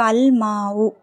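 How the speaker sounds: "அல் மாவு" with a held L and long aa; teacher's measured "அல் மாவு", clear L; lam pronounced. Shown as a demonstration. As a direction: draw out "அல் மாவு", sounding the L. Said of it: "லாம் வந்து உச்சரிக்கப்படணும்".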